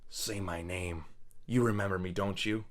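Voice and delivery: low, hushed mock threat; a hint of a vengeful heroine, quiet and low; mock menacing heroine. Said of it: "she goes".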